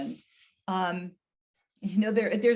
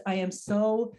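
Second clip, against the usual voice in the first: comforting. Shown as a demonstration. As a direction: reassure him tenderly. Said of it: "offering comfort and reassurance".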